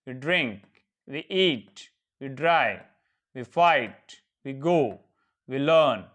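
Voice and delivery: steady, even practice drill; drill recitation. Shown as a demonstration. Teacher drilling verb forms for students to repeat. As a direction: recite each pair clearly for the class. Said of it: "practice बोलिए".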